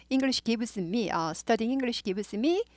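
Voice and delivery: slow, careful reading of an English example; teacher reading a model sentence slowly. Shown as a demonstration. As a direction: read it out word by word, slowly. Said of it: "순서 잘 나온 거예요".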